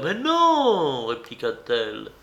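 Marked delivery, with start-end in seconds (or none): 0.0-1.0 very high, sharp denial; angry denial. A narrator's reading. Monique angrily denies it to Marin. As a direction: snap back angrily. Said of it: "avec une sorte de colère".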